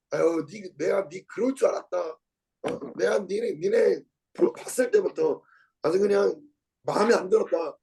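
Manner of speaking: acting out a passer-by's mild scorn; mock scornful cursing. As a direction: sneer at them like a hostile stranger. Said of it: "이러면서 막 욕을 하고 막 비웃고". (비웃으며 욕하는 행인 흉내)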